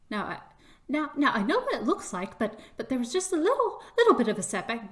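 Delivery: a touch panicky, stumbling over words; mild pleading. Acted. Chris pleads with the official, mildly desperate and rushed.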